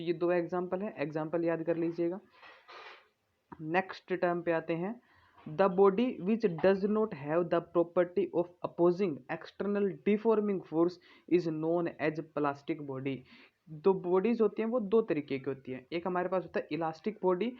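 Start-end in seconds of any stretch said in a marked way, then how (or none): 5.5-13.2 slow, measured reading of a definition to copy down; slow dictation read. Acted. Teacher dictating a definition to students, slow and measured. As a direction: read it out word by word so students can write it.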